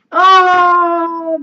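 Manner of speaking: high, loud, drawn-out "oh"; moved cry. Real, not acted. Touched by a friend's card, moved cry. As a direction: let out a long, high cry of emotion.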